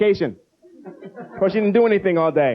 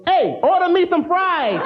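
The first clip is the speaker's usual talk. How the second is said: put-on higher, slow clueless kid; dumb kid voice; 9 semitones higher, slower than usual. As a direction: say it like a proud dimwit. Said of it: "Frank stands up and goes".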